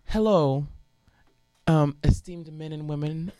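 measured mock courtroom address; lightly hammed-up opening statement; dramatic student lawyer. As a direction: address the jury with mock formality. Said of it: "being as dramatic".

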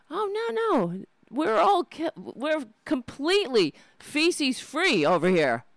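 mock corporate denial. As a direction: play the shifty company rep.

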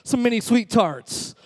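mock exasperated threat; frustrated. Customer threatens a vending machine, frustrated. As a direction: threaten the machine, mildly worked up. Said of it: "You're getting frustrated. You're like".

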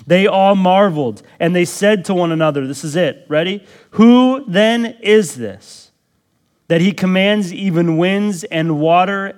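loud, high, emphatic sermon voice; full-force preaching. Acted. Pastor driving home the main question to his congregation, loud and high.

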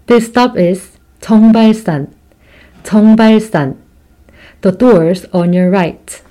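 recorded train stop announcement; slow station announcement voice; subway announcement. Real, not acted. 안내방송 잘 들으셨죠.

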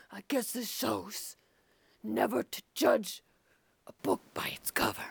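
snake person voice. Acted. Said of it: "Your snake person voice went away".

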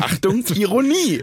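high, loud drawn-out announcer call; jingle announcement. Pretend. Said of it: "das mache ich jetzt bei allem".

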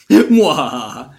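slow, hammy evil villain cackle; a mock vampire's gloating laugh; sneering panto villain.

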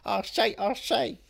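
lightly voiced cartoon character; a hint of cartoon bluster; Looney Tunes voice. Co-host doing the cartoons, lightly put-on voice. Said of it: "I'm now doing the Looney Tunes".

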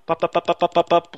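light popping sounds, one after another; imitated popping. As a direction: pop each word like popcorn bursting. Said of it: "like that".

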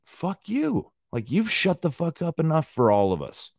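high-pitched indignant comeback; defiant retort. Retold or imitated. Ranter answering commenters who want silence, defiant. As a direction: fire back at the critics, pitch jumping up.

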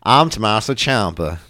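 slow, put-on southern accent. Co-host joining in as the wrestler, mock southern accent. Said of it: "I don't know why I have a southern accent".

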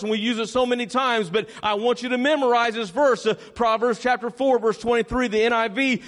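usual speaking voice

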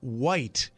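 'white' said slowly and crisply, a clear long i; careful pronunciation. Shown as a demonstration. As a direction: stretch out 'white' carefully so no one hears Wyatt. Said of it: "and I pronounce that".

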